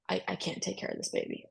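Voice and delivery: a hushed, hopeless whisper; despairing whisper. Retold or imitated. Worn-out mother admitting she can't cope, whispered. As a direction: let the words fall out on breath, beaten. Confessing depression to family.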